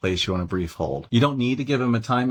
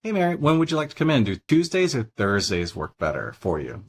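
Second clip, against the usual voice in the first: closed question demo; 3 semitones higher than usual. Shown as a demonstration. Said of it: "But if you say".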